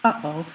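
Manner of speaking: "Uh-oh" with a small catch in the middle; glottal stop. Shown as a demonstration. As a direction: briefly stop the air between "Uh" and "oh". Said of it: "you can hear a little stop there".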